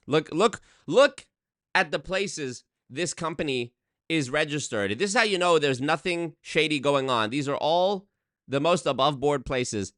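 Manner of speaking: lightly put-on Nigerian accent, salesman pitch; mock Nigerian accent. Mocking the scam company in a Nigerian accent. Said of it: "I'm gonna do it in the Nigerian voice the whole time".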